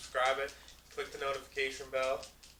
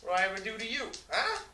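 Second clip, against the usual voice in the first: high, loud Italian-mob guilt trip; mobster parent rant; 8 semitones higher, 5 dB louder than usual. Pretend. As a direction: berate them like a furious Italian mother. Mock guilt-trip tirade at viewers.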